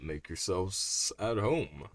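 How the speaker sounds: slow, low gravel host; low vocal fry voice. Acted. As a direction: drag it out low and rough. Voices Robert.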